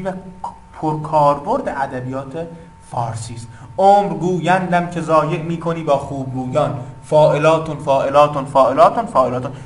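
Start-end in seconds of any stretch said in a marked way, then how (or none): 3.8-9.5 verse then فاعلاتون in even, rhythmic beats; metrical reading. Shown as a demonstration. Teacher showing students the verse's meter, metrical reading. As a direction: recite it to the beat of the meter. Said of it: "سعی کنید که با آهنگ و نوا".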